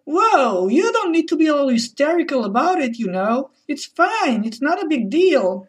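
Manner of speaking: plain calm good-guy tone; calm reasonable voice. Retold or imitated. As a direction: soothe her like the sensible one. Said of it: "calm and normal voices".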